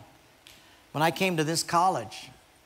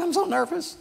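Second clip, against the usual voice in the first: much higher squeaky take of so nervous; nervous little girl; 12 semitones higher than usual. Retold or imitated. Sally telling her friend before the talent show, much higher. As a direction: squeak it like a scared child. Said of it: "and so she's so nervous".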